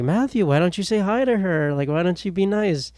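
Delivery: a mild mock of a nagging mom. Mom nudging her son to say hi, mock nagging. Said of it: "And my mom was like".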